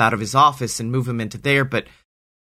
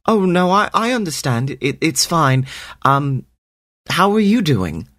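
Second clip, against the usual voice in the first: put-on higher, stammering boy voice; flustered boy; 5 semitones higher than usual. Sammy fumbling a reply to the snake, higher and stammering. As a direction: trip over the words, pitched up.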